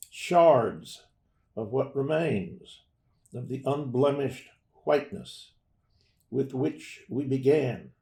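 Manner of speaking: slow, measured poetry recital; poem reading. Acted. Poet reads Spaces, a poem about words, to an audience, slow and measured. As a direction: read it slowly, phrase by phrase, with pauses.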